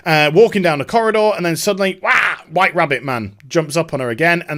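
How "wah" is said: short mock yelp "wah"; a sudden jump-scare "wah"; sudden attack cry. Imitates White Rabbit Man jumping out.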